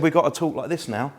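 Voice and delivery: lightly put-on Scouse accent. School mate explaining himself at the turnstiles, mock Scouse accent. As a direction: imitate a mate faking Scouse. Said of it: "he put on a Scouse accent".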